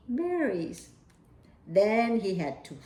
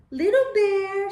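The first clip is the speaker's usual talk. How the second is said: calling out; 9 semitones higher, 6 dB louder than usual. A narrator's reading. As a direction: bear mother calls louder and higher, calling her cub by name. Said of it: "she said".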